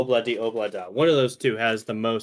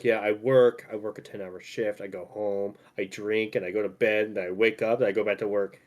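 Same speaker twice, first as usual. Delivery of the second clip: tired dad voice; 5 semitones lower than usual. Retold or imitated. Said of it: "He was like".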